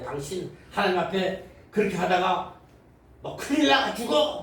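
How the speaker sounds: high, scolding mock tirade; mock angry rebuke. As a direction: scold her in a hammed-up huff. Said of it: "막 따지고 말해".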